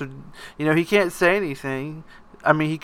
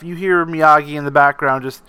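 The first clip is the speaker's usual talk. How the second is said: ordinary delivery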